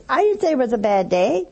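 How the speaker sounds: mildly contrary comeback; lightly mock a quarrelsome uncle's denial; argumentative uncle. Uncle denies calling it a bad day, mildly argumentative. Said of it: "someone who's argumentative".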